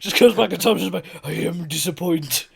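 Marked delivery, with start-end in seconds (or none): 1.2-2.4 slow, weak Asian accent imitation; a failed try at an Asian accent. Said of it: "I can't do Asian accent".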